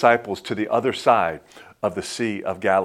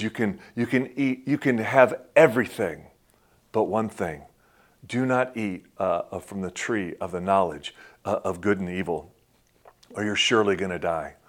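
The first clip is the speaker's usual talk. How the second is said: soft voice of God; 3 semitones lower, 6 dB quieter than usual. Retold or imitated. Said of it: "God says".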